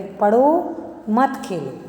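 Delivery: पढ़ो drawn out and stressed, a break, then मत खेलो; stress on पढ़ो, pause after. Shown as a demonstration. Mother telling her child to study, पढ़ो stressed and set apart. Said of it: "उसी वाक्य पर जोर दिया जा रहा है".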